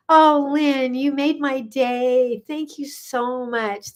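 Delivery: slow, gushing thanks starting high; touched gratitude. Real, not acted. Host thanking Lynn for making her day, touched and gushing. Thanking viewer for good news.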